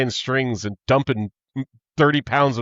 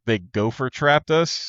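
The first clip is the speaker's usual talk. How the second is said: slow, puzzled quoted line; a puzzled quote of the girl, said slowly; quoting the girl; slower than usual. Retold or imitated. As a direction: repeat her baffled line slowly. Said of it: "she's like".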